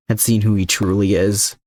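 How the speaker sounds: ordinary delivery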